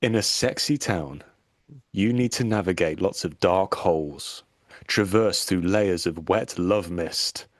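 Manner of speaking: slow, sultry priest voice. Pretend. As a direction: read it like a seductive sermon, slowly. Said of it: "my priest voice on".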